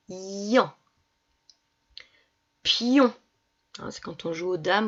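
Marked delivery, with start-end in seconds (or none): 0.1-0.7 "ian" alone, long i into nasal an; drawn-out I. Shown as a demonstration. Teacher naming the sound heard in viande, i drawn out. 2.6-3.1 "Pion" higher and louder, long i into nasal on; drawn-out syllable. Shown as a demonstration. Teacher saying the word so pupils hear ion, drawn out.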